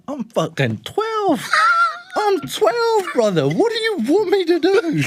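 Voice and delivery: laughing mock plea. Kid protesting to the man, high laughing whine. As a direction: squeak out the protest through laughter.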